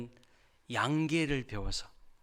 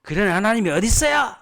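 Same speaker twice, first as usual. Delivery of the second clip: high, loud mock-indignant protest; imagined angry retort to the pastor; 반발하는 항의; 9 semitones higher, 11 dB louder than usual. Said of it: "어떻게 반응하셨을 것 같아요". (발끈해서 항의하듯 소리치기)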